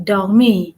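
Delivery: dormir with the French R brought out; dormir, French-style R; emphasis on R. Shown as a demonstration. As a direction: stress the throaty R in dormir. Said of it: "They emphasize on R".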